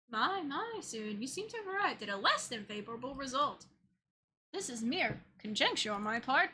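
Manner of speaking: lightly voiced courteous host, polished; suave game character. To the player, a lightly voiced polite schemer. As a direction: read it as a gracious, faintly smug guide.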